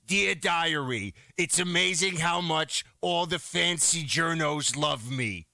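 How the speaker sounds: slow, smug read of "Dear Diary"; mocking Fauci. Host mocking Fauci's diary to his co-host, slow and smug. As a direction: drag out "Dear Diary" like a vain diarist. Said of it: "Fauci's writing".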